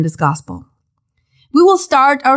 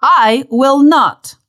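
Peter's boast; 3 semitones higher, much slower than usual. Acted. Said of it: "there goes Peter with his big mouth".

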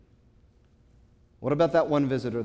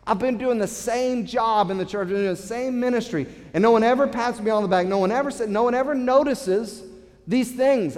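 mock-whiny church member, pitched high; hammed-up church worker griping, high and a bit loud; imitating a complainer; 6 semitones higher, 4 dB louder than usual. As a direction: act out the grumbling volunteer who feels unthanked. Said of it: "They say things like this".

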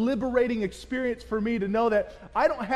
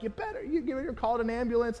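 urgent nurse; 4 semitones higher, 4 dB quieter than usual. Retold or imitated. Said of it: "the nurses were like".

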